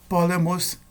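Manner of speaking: "Polemos" stressed on its first syllable, PO; antepenultimate stress. Shown as a demonstration. Teacher giving Greek accent examples, "Polemos" stressed on PO. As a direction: hit PO in "Polemos". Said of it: "antepenúltima sílaba".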